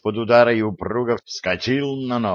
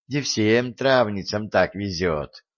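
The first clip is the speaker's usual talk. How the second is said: envious sigh. Acted. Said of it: "завистливо вздохнула".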